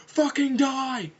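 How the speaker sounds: high, loud, drawn-out scream; screamed threat. Acted. Big Zam attacking the alien mid-crash, high scream. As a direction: scream it at the enemy, high and stretched. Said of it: "he screamed".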